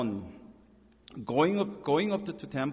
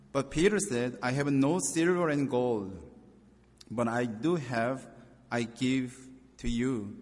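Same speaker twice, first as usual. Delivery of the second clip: scripture reading. Acted. Pastor reading Acts to his congregation, earnest and raised. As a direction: proclaim the passage to the congregation.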